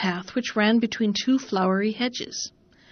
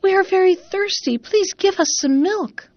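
cats crying together; 9 semitones higher, 3 dB louder than usual. A narrator's reading. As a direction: cry out like thirsty cats. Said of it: "all cried with one voice".

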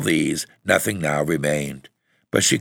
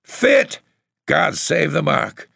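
indignant cry; 11 semitones higher, slower than usual. A narrator's reading. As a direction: throw it back in shrieked disbelief. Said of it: "cried her mother".

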